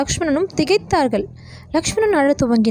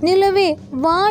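put-on child pleading; 5 semitones higher, much slower than usual. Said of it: "என்று கெஞ்சினான்".

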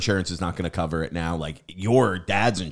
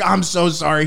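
high-pitched, louder mock apology; imitated frantic apology; 10 semitones higher, 6 dB louder than usual. Retold apology after fender bender.

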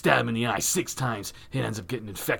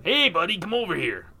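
calling out; 6 semitones higher than usual. Acted. Acted calling out to stranger.

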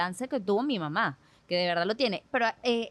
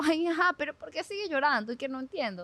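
mock desperation; 5 semitones higher than usual. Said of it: "Yo me desesperaba".

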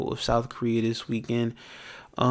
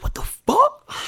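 sudden very high cry of disbelief; shocked outburst; 4 dB louder, slower than usual. Retold or imitated. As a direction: yelp it out in total disbelief. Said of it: "I'm like".

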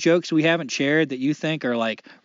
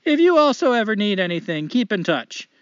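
put-on Canadian accent; 3 semitones higher than usual. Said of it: "I'm gonna try to do a light Canadian accent".

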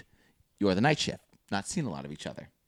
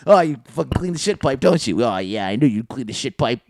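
mock-admiring razz; 3 semitones higher, 3 dB louder than usual. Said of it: "You'd be".

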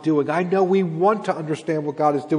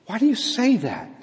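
higher-pitched question without force; gentle correction; 7 semitones higher than usual. Acted. God correcting the exiles without destroying them, gentle. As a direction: ask it as a mild rebuke. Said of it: "the Lord's correction to them and to us, it's not destructive".

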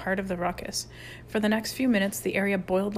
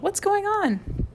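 high, slow, stretched-out call; long high-pitched shout of curiosity; 12 semitones higher, much slower than usual. A narrator's reading. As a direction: holler the question from a doorway. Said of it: "a voice called".

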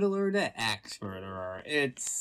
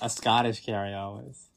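put-on Scottish accent; 4 semitones lower than usual. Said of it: "that's a terrible Scottish accent".

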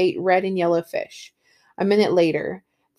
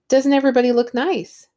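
gushing; 5 semitones higher, 4 dB louder than usual. Acted. Party guest gushing at Montag.

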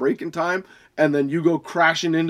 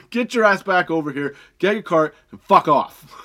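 angry shout; 3 semitones higher, 4 dB louder than usual. Acted. Ranting at shoppers leaving carts.

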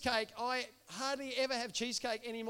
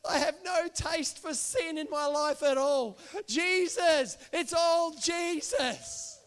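retold weeping; 2 semitones higher, 5 dB louder, slower than usual. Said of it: "she was weeping and she said".

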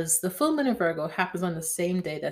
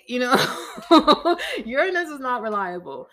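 higher-pitched, talking through a laugh; 6 semitones higher, 5 dB louder than usual. Real, not acted. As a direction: crack up at your own joke. Laughs at her own Uranus joke.

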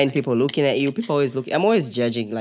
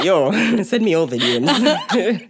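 slow, laughing invitation; 5 semitones higher, slower than usual. Real, not acted. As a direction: draw it out, giggling. Joking eagerness.

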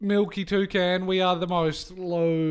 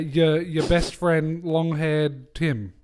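slow grand introduction; 4 dB louder, slower than usual. Pretend.

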